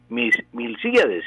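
Milcíades with the weight on the í; stressed on the í. Shown as a demonstration. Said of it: "El acento es esdrújulo".

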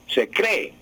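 cree stressed on the first E: CRÉ-e; acento grave. Shown as a demonstration. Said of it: "la palabra es grave". (cree con acento en la primera e)

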